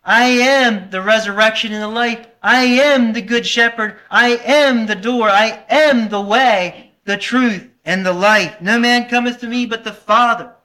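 emphatic, measured reading of scripture; scripture recitation. Acted. Preacher reciting scripture to the congregation, emphatic. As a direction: preach each I am with weight.

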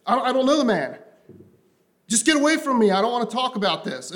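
preacher voicing Peter brushing off accusers, heated; mock angry denial. Preacher acts Peter denying Jesus, heated. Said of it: "he's cursing and swearing".

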